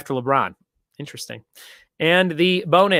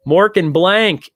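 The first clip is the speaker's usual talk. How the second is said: slow, louder clue; 4 semitones higher, 5 dB louder, much slower than usual. Shown as a demonstration. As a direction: stretch Mork and blank out slowly and loud. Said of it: "drawn-out clue read".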